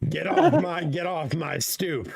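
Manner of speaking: hammed-up stoop grouch; yelling at kids. Pretending to chase kids off the stoop, mock yell. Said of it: "yell at some kids on the stoop".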